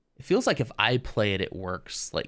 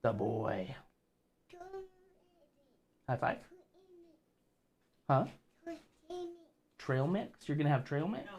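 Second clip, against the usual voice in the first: higher, softer parental questioning; 7 dB quieter than usual. Real, not acted. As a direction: check gently with a little one, pitch lifted. Parent chatting softly with small child.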